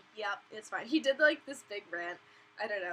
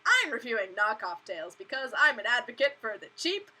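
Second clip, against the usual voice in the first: mocking imitation; 8 dB louder than usual. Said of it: "some chicky poo who's like".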